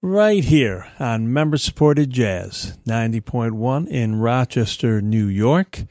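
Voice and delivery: slightly reedy, thin voice; a touch of reediness in the voice. Real, not acted. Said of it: "my voice sounds a little reedy".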